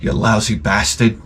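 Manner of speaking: low-key mock curse after a long pause; slow-starting curse. Old man starts cursing the cashier, slow and restrained. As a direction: let the insult out slowly, held back. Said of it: "it starts out very slowly".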